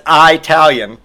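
"Italian" said with a long EYE at the start; mock mispronunciation. Comedian quoting Grover's error, "Italian" said eye-talian. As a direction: open "Italian" like the word eye. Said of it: "which he pronounced as".

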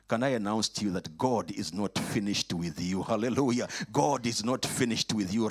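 loud rising preacher proclamation; preaching. Acted. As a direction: proclaim it to the congregation, building.

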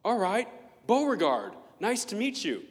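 high, loud, laughing mock-posh welcome; hammed-up polite greeting. Meeting someone with a grand name, hammed-up gush. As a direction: gush over a fancy surname. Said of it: "you're like".

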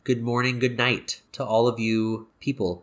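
blocked nose, nasal sign-off; with a broken nose. Real, not acted. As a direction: talk with a stuffed-up nose. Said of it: "you got super nasally".

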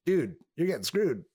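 squeaky cartoon squirrel voice, outraged; angry cartoon squirrel. Retelling a cartoon, the squirrel yells at tech support in shock. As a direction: play the furious squirrel shocked at the pay.

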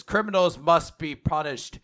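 slow, solemn pronouncement; drawn-out, imperious verdict; voice from the beam. Acted. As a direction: pass sentence slowly and deliberately. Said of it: "the voice says".

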